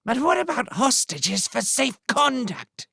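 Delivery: high, tense rat voice; hissed worry. Acted. Redtooth pressing his chief for hostages, high tense hiss. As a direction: press the point nervously. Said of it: "hissed Redtooth".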